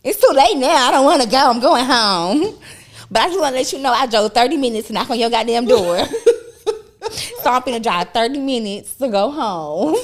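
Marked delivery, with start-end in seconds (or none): 0.1-4.1 mock angry friend.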